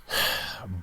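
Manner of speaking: long breathy exhale; weary sigh. Real, not acted. Host about to give a losing score, sighing. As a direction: let out a real sigh.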